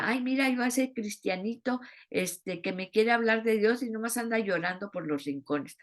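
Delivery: fast snide neighbour mocking the crying believer; mocking gossip. Mocking onlooker gossiping about believer.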